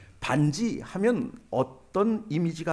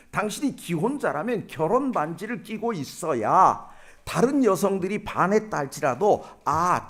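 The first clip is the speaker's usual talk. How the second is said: retold indignant scolding, pitched up; mock angry; 3 semitones higher than usual. Local woman scolding the married man for wearing no ring, mock angry. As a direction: act out a mildly angry reproach. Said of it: "이 여성이 화를 내는 것입니다".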